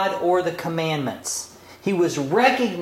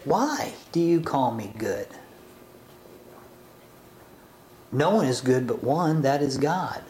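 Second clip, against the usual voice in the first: gentle probing reading; 4 semitones lower than usual. Shown as a demonstration. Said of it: "So what about reading it this way?".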